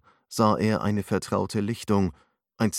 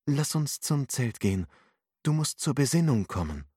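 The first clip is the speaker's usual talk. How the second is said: patient; 6 semitones higher than usual. A narrator's reading. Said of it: "sagte Naya geduldig".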